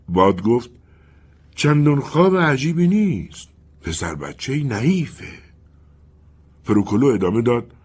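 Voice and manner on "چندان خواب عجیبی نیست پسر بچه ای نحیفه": wind's voice. Acted. The wind answers the colonel.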